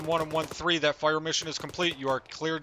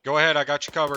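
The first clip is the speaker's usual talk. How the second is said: shouting; 9 dB louder, faster than usual. Real, not acted. Shouting cover under fire.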